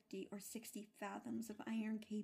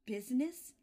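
a ghost crying out in protest; cried out; 3 semitones higher, 9 dB louder than usual. A narrator's reading. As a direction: fling the word back in anguish. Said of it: "cried the ghost".

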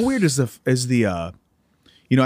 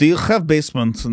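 put-on Russian accent. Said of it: "I could do, like, a Russian accent".

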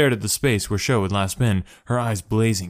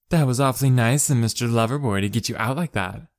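teasing; 3 semitones higher than usual. Acted. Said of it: "she teased".

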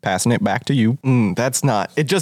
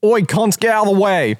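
high, rough-and-ready shout to clear a path; brash call; 7 semitones higher than usual. Acted. Bodyguard orders crowd out of the way, brash high call. Player calls out as brash character.

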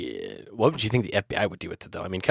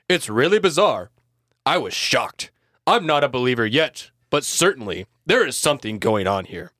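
pompous senator oratory; 4 dB louder than usual. Acted. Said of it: "what's a good senator voice?".

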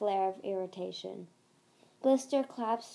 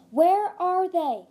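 loud, high, drawn-out demand; high, urgent yell; alarmed shout; 9 semitones higher, 12 dB louder, slower than usual. A narrator's reading. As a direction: cry it out, jolting awake. Startled panicked cry out of a nightmare.

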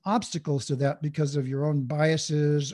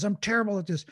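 mildly voiced inner critic, pitched higher; self-critical inner voice; 4 semitones higher than usual. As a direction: blurt it like a self-judging thought. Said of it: "this voice that says".

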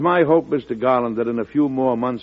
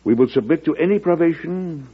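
a formal reading of the letter, raised at the start; reading a letter aloud; 4 semitones higher than usual. Retold or imitated. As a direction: read it out to the gentlemen like a declaration. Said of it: "I would like you to hear a passage".

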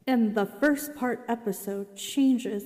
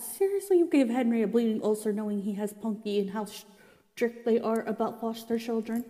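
annoyed. Real, not acted. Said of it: "I was annoyed".

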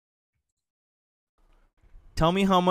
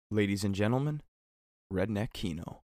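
announcer voice; 7 semitones lower, 5 dB quieter than usual. Acted. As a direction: present it like a game-show host. Announcing the next game.

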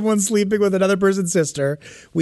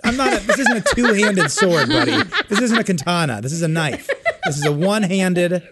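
mock indignant; 3 semitones higher than usual. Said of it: "I'd go".

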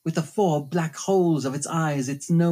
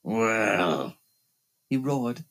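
hissing phantom voice; 6 semitones lower than usual. Acted. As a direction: taunt her with cold contempt. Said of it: "Then he hissed at me".

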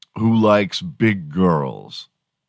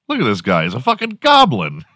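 "goblin" with a laugh in it; mock insult, laughing; 3 semitones higher than usual. Calling someone a goblin, laughing through the insult. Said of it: "Like calling someone a goblin".

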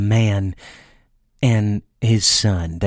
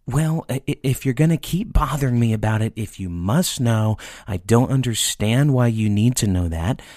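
frustrated dad; 3 semitones higher than usual. Retold or imitated. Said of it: "He got frustrated".

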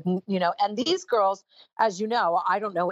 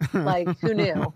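slow, deadpan "who knew"; dry aside; slower than usual. Real, not acted. Deadpan joke to the interviewer, slow and dry. Joking she's now officially bi.

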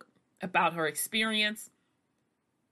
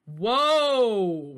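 high, loud stunned disbelief; shocked; 8 semitones higher, 7 dB louder, slower than usual. Real, not acted. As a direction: gasp it out, floored. Shocked by what she read.

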